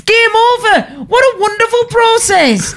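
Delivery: high, laughing delight; gushing excitement. Real, not acted. A former waitress celebrating the perfect service process, high and laughing. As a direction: beam it out, delighted. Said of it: "gushing about perfect service".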